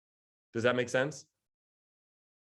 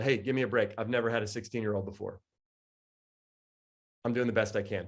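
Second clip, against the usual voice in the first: softly pleading; 4 semitones lower, 5 dB quieter than usual. Retold or imitated. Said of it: "I literally will say to my sixteen-year-old".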